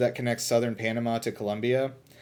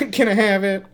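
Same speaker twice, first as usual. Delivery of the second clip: put-on high, loud old prospector; 8 semitones higher, 7 dB louder than usual. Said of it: "say it like an old prospector".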